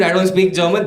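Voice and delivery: half-hearted re-enacted shout; retold scream. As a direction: repeat your yelled line, toned down. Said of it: "so I screamed".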